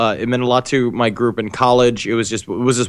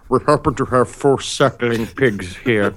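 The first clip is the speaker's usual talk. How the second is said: imitating a chef. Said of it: "the chef will come to your table and he's like".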